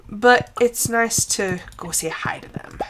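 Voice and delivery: soft voiceless tip; whispered aside. Real, not acted. Gamer telling viewers a gentle tip, whispered. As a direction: whisper it like a secret.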